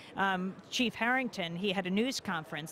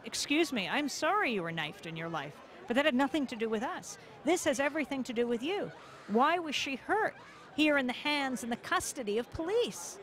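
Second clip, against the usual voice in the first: indignant protest; 5 semitones higher than usual. Retold or imitated. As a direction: demand an answer, outraged but controlled. Retold confrontation with police officer.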